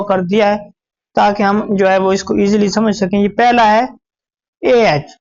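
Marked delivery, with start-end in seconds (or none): 4.6-5.2 a long drawn-out vowel sound; vowel sound demo. Shown as a demonstration. Teacher sounding out the vowel to students. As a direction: sound out the vowel slowly for the class. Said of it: "आवाज ऊपर की तरफ जा रही है".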